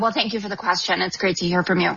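throat catching on water; choking on water. Real, not acted. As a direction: speak through a bit of choking. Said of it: "I'm choking a little bit on some water".

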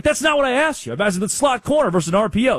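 high, exasperated pushback. Retold or imitated. Reporter pushing back at the coach, exasperated. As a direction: come on, that's not what I asked.

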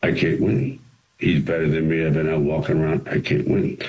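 low, subdued quote of a defeated fighter; Rocky. Acted. Boxer confides his doubts before the fight, subdued. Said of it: "the scene when Rocky says".

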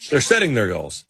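"setting" with its full -ing ending; television-style -ing on "setting"; pronounced final G. Shown as a demonstration. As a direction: sound out the ng closing "setting". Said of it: "finish our sentences on television with G's".

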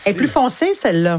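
talking while chewing a tomato; words round a mouthful; mouth full. Real, not acted. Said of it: "vous avez la bouche pleine".

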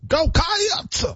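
very high cheer, CATS broken into "ky-ats-uh"; added syllable. Shown as a demonstration. Co-host copying the fan cheer, CATS with an added syllable. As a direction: whoop CATS with an extra syllable. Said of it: "You're adding a syllable".

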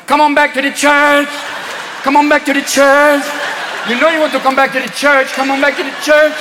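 lightly voiced flirty nun chant; seductive samba nuns. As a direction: lure them back with a sultry tease. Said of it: "samba nuns in the thongs going".

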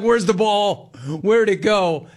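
high, baffled questions; confused player. Retold or imitated. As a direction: act lost and confused. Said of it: "he's looking at his glove like".

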